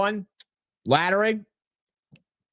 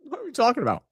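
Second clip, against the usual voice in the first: laughing disbelief; 8 semitones higher, much faster than usual. Real, not acted.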